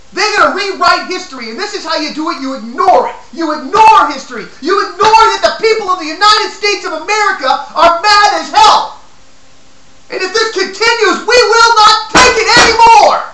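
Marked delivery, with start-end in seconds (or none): 2.4-9.0 angry. Real, not acted. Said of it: "I'm angry". 10.1-13.2 choked-up fury, near tears; shaking with anger. Real, not acted. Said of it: "I'm shaking".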